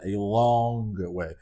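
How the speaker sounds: "long" slowly stretched; drawn-out LONG. Real, not acted. Insisting dad has changed, drawn-out LONG. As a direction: linger on "long" for emphasis. Repeats stretched word for emphasis.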